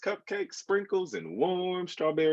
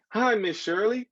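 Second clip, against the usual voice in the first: much higher, louder call; yelled greeting; 10 semitones higher, 4 dB louder than usual. A narrator's reading. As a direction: shout hello across the street. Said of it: "Martine yelled".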